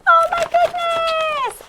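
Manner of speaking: high, drawn-out delighted surprise; amazed exclamation. Acted. Host opens the envelope to find art supplies, amazed exclamation.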